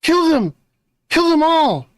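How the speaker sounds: loud, high, every letter bitten off; over enunciating. Retold or imitated. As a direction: quote the movie line, spitting each sound. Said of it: "Very noticeably enunciated every fucking letter".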